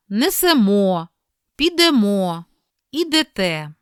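slow Несемо, підемо, ідете, each stressed on the final vowel; last-syllable stress. Shown as a demonstration. Teacher demonstrating verb endings, final stress on Несемо, підемо, ідете. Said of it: "на останньому складі мають наголос".

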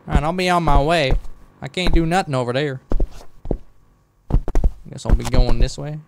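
lightly put-on country accent; amateur go at a redneck accent. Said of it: "I also don't really know what this accent is".

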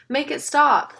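high loud desperate cry; desperate scream. A narrator's reading. Kid behind Jonah begging the film to stop, desperate scream. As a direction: beg it to end.

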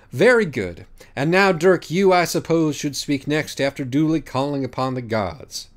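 lightly voiced solemn judge reciting; pompous judge Minos. Minos opening the trial, lofty and formal.

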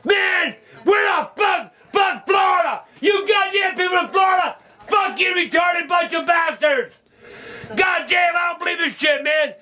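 shouting curses at Florida; spitting fury at the jury; furious rant. Real, not acted. Ranting at the verdict.

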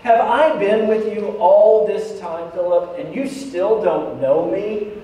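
weary, drawn-out disbelief; slow, as if rolling your eyes at him; eye-rolling exasperation. Acted. Jesus to Philip who still doesn't know him, exasperated. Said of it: "you can just hear it in the response".

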